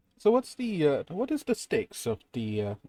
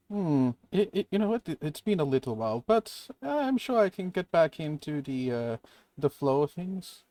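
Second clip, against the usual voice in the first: higher-pitched, hesitant modesty; underplaying ability; 5 semitones higher than usual. Player sounding rusty at the card game, modestly underplaying. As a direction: feign being a little out of practice. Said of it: "underplay my abilities now".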